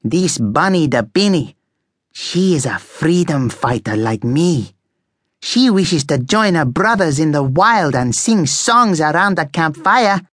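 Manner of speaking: put-on high, drawn-out accented character voice; accented freedom-fighter guinea pig, impassioned. A narrator's reading. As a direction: proclaim it like a rousing rebel.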